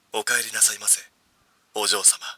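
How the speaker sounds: low, soft recorded butler voice; played back from a phone; phone playback. Shown as a demonstration. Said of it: "再生っと。".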